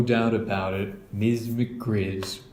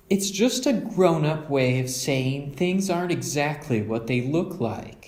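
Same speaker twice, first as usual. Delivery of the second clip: higher, gentle mother voice; a kindly mother making a point; Mama; 5 semitones higher than usual. Acted. Mother teaching her cubs a saying, gently.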